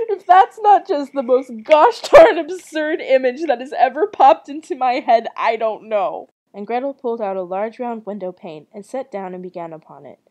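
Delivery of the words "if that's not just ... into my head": loud, higher, tickled disbelief; incredulous outburst. Real, not acted. Reacting to Gretel gnawing the house, loud amused disbelief. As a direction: exclaim it loudly after a laughing fit. Amazed at absurd image, after laughing.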